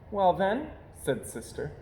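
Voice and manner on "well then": cub voice. Acted. Cub Sister voiced in story.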